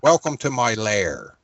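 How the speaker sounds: slow, lightly voiced movie villain; a hint of a smug evil mastermind. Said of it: "the Doctor Evil and Austin Powers".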